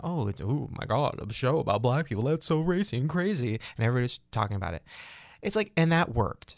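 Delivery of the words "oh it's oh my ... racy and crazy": mock hype voice. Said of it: "you know".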